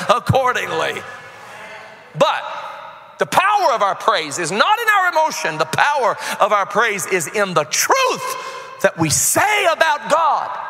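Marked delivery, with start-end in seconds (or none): 2.1-10.6 preacher's emphatic, swelling proclamation; impassioned preaching. Real, not acted. Preacher telling his church where praise gets power, emphatic. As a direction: drive the point home to the congregation.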